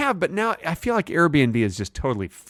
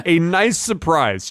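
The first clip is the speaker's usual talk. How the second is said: higher, slow review quote; critic quote voice; 4 semitones higher, slower than usual. Retold or imitated. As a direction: announce it like a blurb.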